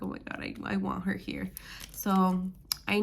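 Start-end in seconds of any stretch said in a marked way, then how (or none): 0.0-1.5 whispered longing. Retold or imitated. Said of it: "I just feel like".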